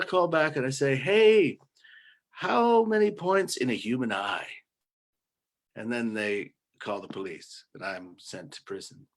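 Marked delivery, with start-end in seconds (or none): 1.0-4.5 bright chirpy caller. Pretend. Prank call to diet hotline.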